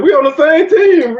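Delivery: high, slowed plea that you're on her side; pleading protest. Retold or imitated. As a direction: beg her, we're on the same team. Pleading with scolding old lady.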